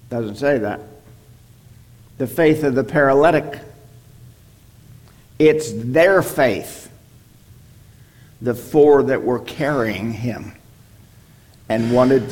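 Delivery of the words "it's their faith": "their" said slowly and stressed; slow down and lean on "their". Shown as a demonstration. Preacher correcting a reading of the verse, stressing "their". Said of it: "But it is their faith".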